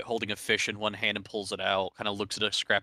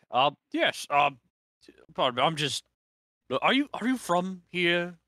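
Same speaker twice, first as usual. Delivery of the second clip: put-on higher, halting old man voice; hesitant old man mumbling; 9 semitones higher, 4 dB louder than usual. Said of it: "the old man grumble babble".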